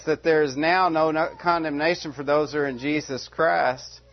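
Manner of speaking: protesting interruption. Acted. Objector interrupting Paul to challenge his claim, protesting. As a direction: cut in to challenge the speaker.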